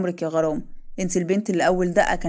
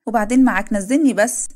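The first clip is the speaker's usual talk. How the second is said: playful protest; 3 semitones higher, 6 dB louder than usual. Acted. Wife carried by her husband, louder playful insisting. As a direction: insist he put you down, loudly.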